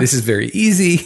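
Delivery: loud mock boast; shout. Real, not acted. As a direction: declare it loudly.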